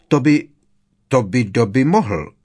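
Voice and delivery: falter, then start over; unsure, broken-off squeak; hesitant. A narrator's reading. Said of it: "hlesl nejistě".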